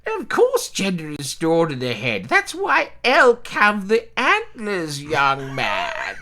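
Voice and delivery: put-on slow, lecturing old relative; elderly relative voice. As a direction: lecture like a fussy old aunt. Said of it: "this is a voice I'm actually comfortable with".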